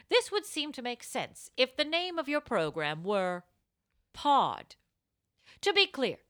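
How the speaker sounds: measured, over-precise correspondent voice; lightly mock-formal delivery; formal letter reading. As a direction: read it as a pompous grammar-minded letter.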